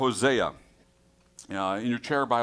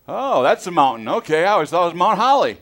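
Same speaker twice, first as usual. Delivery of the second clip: loud, higher, hammed-up realization; mock surprised exclamation; 8 semitones higher, 12 dB louder than usual. Preacher mocks his surprise at a mountain, loud exclamation. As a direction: blurt it out as a mock discovery. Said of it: "I'm going".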